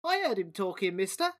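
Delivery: small voice. Acted. Rat piping up to Dom, small and eager. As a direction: pipe up from below. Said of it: "a small voice piped up".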